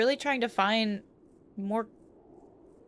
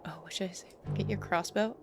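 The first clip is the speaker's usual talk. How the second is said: whispering; 7 dB quieter than usual. Acted. Whispered aside while playing.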